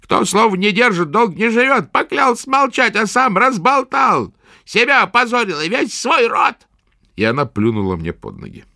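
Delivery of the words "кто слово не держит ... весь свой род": contemptuous witch. A narrator's reading. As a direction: spit the judgement down at him. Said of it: "с презрением".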